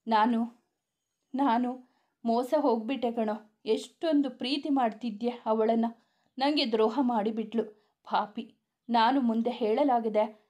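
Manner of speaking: mildly tearful, halting, slowing at the end; a touch of sobbing, words catching; understated crying. Acted. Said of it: "ಅಳುತ್ತಾ ಹೇಳಿದವನನ್ನು". (ಸ್ವಲ್ಪ ಅಳುತ್ತಾ, ತಡೆತಡೆದು ಹೇಳುವ ಧ್ವನಿ)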